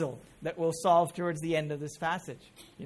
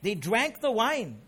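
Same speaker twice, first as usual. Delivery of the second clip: scripture reading. Acted. Reads scripture aloud to congregation.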